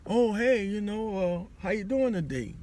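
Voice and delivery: bright high cheery hello; bubbly greeting. Retold or imitated. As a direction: gush a greeting to a customer. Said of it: "then you be like".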